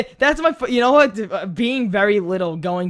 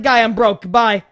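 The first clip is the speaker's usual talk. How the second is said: brush-off; 2 semitones higher, 8 dB louder than usual. Retold or imitated. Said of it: "And I'm like".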